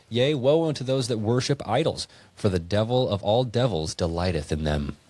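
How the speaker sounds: put-on measured, solemn reading of an old verse; scripture reading. Friend reading verses to a podcast co-host, solemn scripture read. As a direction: read it out like holy writ.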